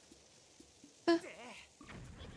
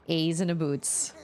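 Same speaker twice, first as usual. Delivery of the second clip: laughing; 2 semitones lower than usual. Real, not acted. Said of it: "That's right".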